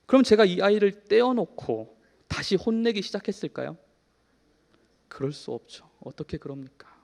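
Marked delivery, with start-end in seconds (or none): none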